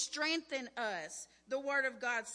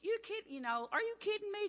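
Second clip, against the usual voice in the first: lightly mimicked incredulous friend, pitched up; retold amused disbelief; 8 semitones higher, faster than usual. Friend answering a panicked call she takes for a joke, mock amused disbelief. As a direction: imitate a friend who thinks it's a joke, voice lifting high. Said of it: "like, laughing. She goes".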